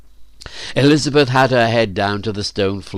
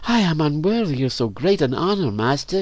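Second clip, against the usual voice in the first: put-on humble slave girl; 6 semitones higher than usual. Slave kneels humbly before master.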